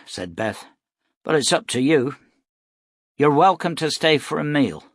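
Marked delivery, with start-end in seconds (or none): 1.2-4.8 tough and loud. Acted. Mother offers a meal.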